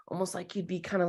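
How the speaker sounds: a soft unvoiced whisper; whispered aside. Real, not acted. Coach whispers an aside while showing the pose, whispering. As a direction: breathe it under your voice.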